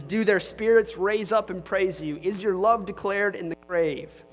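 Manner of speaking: earnest, lightly heightened Bible reading; scripture reading. Acted. Pastor reading Psalm 88 to the congregation, earnest and grave.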